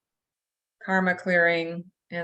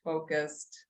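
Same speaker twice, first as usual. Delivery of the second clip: guided meditation; slower than usual. Acted. Leads group into meditation.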